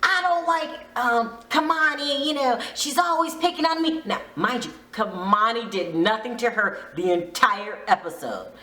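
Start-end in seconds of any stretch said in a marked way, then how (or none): 0.0-4.0 higher, whining put-on voice; lightly voiced petty whine; mock whiny complaint. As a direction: imitate a jealous castmate complaining. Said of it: "She was like".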